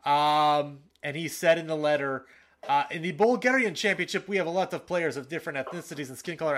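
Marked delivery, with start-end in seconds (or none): 2.9-6.6 lightly voiced Russian accent, higher at the start; slightly put-on Russian-accented reading. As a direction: read the quote with a hint of a Russian accent. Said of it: "I don't know why I'm doing a Russian accent".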